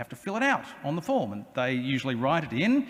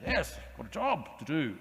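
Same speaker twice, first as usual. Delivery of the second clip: self-important; 3 dB quieter than usual. Retold or imitated. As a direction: puff up like you're terribly important. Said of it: "too carried away with the importance".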